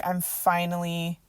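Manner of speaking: low, slow, soft relief; understated, quiet sense of finally being safe; retold relief. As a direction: let the relief settle in, voice sinking. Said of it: "had this whole thing of relief".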